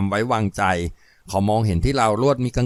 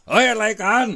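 startled shout; 10 semitones higher than usual. Acted. Startled man bursts out.

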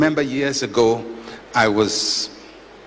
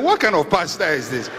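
mock them, pitched up and yelling; mock demanding family; 14 semitones higher than usual. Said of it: "the family members are saying".

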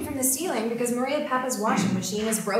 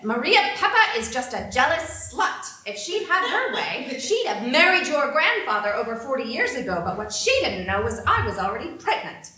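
loud, heated venting; spiteful rant; 3 semitones higher, 7 dB louder than usual. Retold or imitated. Grandmother ranting about Maria Papa at home, loud and spiteful. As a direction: spit it out once the door is shut.

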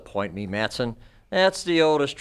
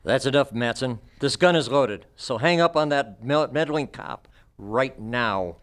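gunpoint threat. Acted. Villain threatening the detective at gunpoint, hard warning. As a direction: warn her off hard, gun in hand.

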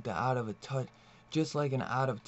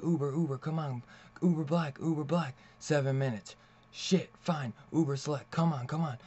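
higher, urgent and impatient throughout; frantic hurry; 4 semitones higher than usual. Retold or imitated. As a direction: rush it like she's desperate to escape. Woman frantically hailing a ride.

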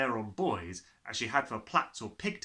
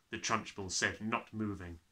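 ordinary delivery, nothing marked

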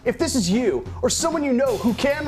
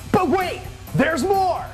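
much higher, slow hype; excited; 4 dB louder, slower than usual. Acted. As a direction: stretch it out like a huge deal. Classic infomercial hype line.

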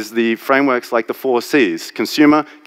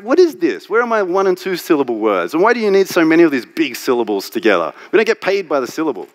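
exasperated rant; 5 semitones higher than usual. Retold or imitated. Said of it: "I'm like".

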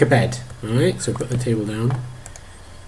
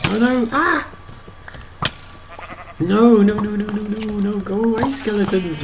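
mock panic; 9 semitones higher than usual. Fleeing skeletons in game, playful.

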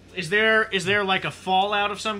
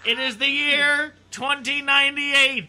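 slow, louder sci-fi intro through a laugh; dramatic narrator; 6 semitones higher, 5 dB louder than usual. Acted. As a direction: announce the future like a trailer. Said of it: "The Overlord has extended".

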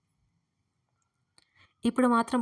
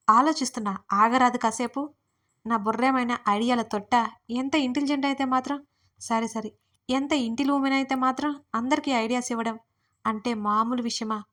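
showing off; 2 semitones higher than usual. Retold or imitated. Narrator brags to her anxious friend, mock boastful. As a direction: playfully brag about being clever. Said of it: "pose కొట్టాను".

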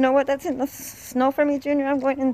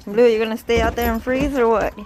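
calling out; 6 dB louder, faster than usual. Real, not acted. Calling out to dog.

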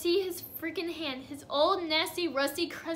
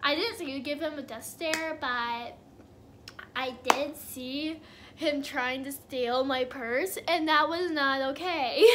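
mom's reply. Retold or imitated. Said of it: "she's like".

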